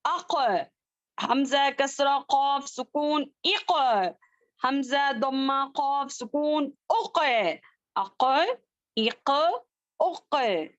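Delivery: अक इक उक with the क bouncing back; echoing letter demo. Shown as a demonstration. Teacher showing the right echoing reading. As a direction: let the क of अक echo. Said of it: "पढ़े मेरे साथ".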